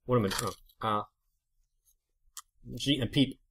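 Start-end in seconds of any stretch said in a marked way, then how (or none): 2.7-3.4 mouth full. Real, not acted. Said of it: "Or you say with your mouth full".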